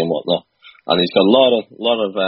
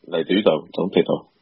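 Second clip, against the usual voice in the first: Scouse catchphrase; 2 semitones lower, 3 dB quieter than usual. Shown as a demonstration. Liverpool guest doing the classic line on request, Scouse accent. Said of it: "can you give us the classic".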